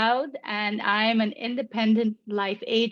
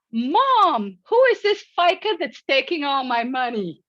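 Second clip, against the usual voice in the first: imitating an indignant daughter, higher and louder on "Mom"; mock indignant; 4 semitones higher, 4 dB louder than usual. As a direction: protest to Mom in playful outrage. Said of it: "I heard her say indignantly".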